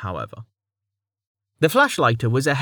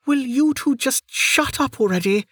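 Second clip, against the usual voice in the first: much higher, curt woman's snap; snapped; 14 semitones higher than usual. Acted. Lady Draves silences the two guards with a snap. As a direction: snap at them, fed up. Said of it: "a woman's voice snapped".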